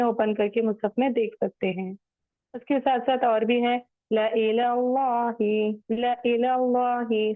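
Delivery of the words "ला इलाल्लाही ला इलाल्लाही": ला इलाल्लाही opening on a short "la"; measured ला इलाल्लाही, lam with only a short "a". Shown as a demonstration. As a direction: recite ला इलाल्लाही slowly, first alif silent. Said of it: "सिर्फ लाम जबर ला पढ़ेंगे".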